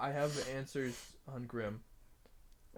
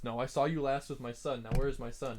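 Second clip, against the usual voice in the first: angry demand; 6 dB louder than usual. Acted. Bartender demands his son.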